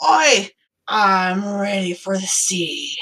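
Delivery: put-on slow, gruff old sea captain; gnome captain voice. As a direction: drawl it like an old salty gnome. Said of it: "He goes".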